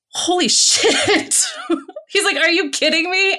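high, laughing mock amazement; imitating the doctor cracking up in disbelief. Retelling the psychiatrist's reaction, laughing and imitating him.

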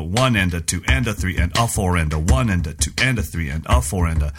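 lilting "and a" after every beat number; triplet count. Shown as a demonstration. Drummer counting out triplets for co-host, rhythmic triplet count. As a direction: count "one and a two and a" in even, steady threes. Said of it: "I could play that as triplets".

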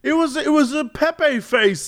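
high, slow whiny imitation; mock indignant protest; protesting chatters. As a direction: mimic chat objecting in a high voice. Chat protesting in acted quarrel.

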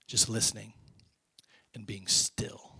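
slow, near-whispered hush; very soft and unhurried. Real, not acted. Illustrates quietly sitting still.

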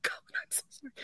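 high, tearful voice; choked with grief, apologizing at the end; crying. Real, not acted. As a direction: push the memory out through real sobs. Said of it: "oh, I'm gonna start crying".

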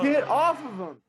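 high, desperate yell; panicked shouting. Acted. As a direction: scream it at the bull. Friend gored, shouting at bull.

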